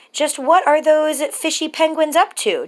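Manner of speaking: a hint of a puzzled girl; wondering child. A narrator's reading. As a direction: wonder aloud like a curious little girl. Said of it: "Julia wondered".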